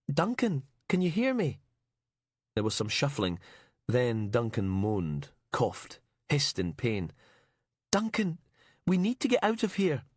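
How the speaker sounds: high, pleading calls into the dark; desperate to rouse him; urgent, afraid. Acted. Heather urges trapped Duncan.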